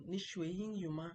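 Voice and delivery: careful Mandarin tones on Ni shui yin yu ma; teacher models Ni shui yin yu ma with clear tones. Shown as a demonstration. Teacher showing students Mandarin, careful tones. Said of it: "If you watch my tones".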